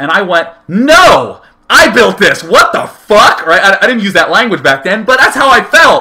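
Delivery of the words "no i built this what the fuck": put-on very slow, livid, furious yell, long drawn-out "no". Retelling his childhood outburst at a girl offering help: imitating his own angry yell. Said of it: "I was mad. I was livid".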